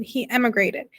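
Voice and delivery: "emigrated" picked out with a lifted emphasis; stress on EMIGRATED. A narrator's reading. Mother correcting her daughter, pointed stress on "emigrated". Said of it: "stressing the word".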